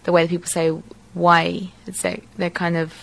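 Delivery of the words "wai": wai with a slightly nasal vowel; Maori-influenced wai. Shown as a demonstration. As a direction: let wai sit a little in the nose. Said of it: "slightly nasal sound".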